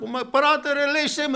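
high, loud desperate plea; crying out. Retold or imitated. Rich man calling to Abraham from torment, loud desperate plea. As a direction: shout up to him, begging. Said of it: "Ο πλούσιος εδώ φωνάζει".

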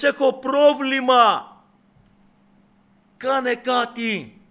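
high, slow imitated plea; crying out. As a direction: call out for help in the woman's place. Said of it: "φωνάζει".

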